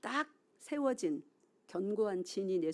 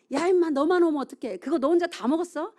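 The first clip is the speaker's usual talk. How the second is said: put-on much higher and louder, a parent yelling at the kid; mock scolding yell; 8 semitones higher, 10 dB louder than usual. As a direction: bark it at the child like an angry dad. Parents scolding Cain loudly.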